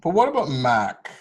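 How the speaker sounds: normal talking voice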